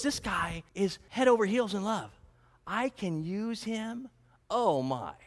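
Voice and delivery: sly, scheming aside as Laban; Laban's greedy private thought, sly and hushed; scheming inner voice. Retold or imitated. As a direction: mutter it like a con man sizing up a mark. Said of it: "That's what he's thinking".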